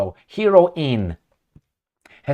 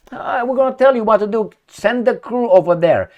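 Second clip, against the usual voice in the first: bossy supervisor; 6 semitones higher than usual. Retold or imitated. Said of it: "The supervisors are the ones".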